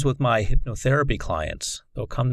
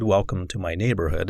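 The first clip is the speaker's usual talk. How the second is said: Mister Rogers; 4 semitones lower than usual. Retold or imitated. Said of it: "not like Mister Rogers' Neighborhood".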